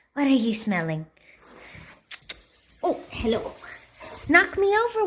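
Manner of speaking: cooing dog praise; squeaky praising a dog. Real, not acted. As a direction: gush over a good puppy.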